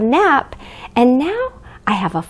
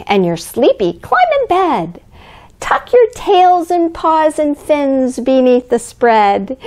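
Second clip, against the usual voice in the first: put-on reading to children. Reads picture book aloud.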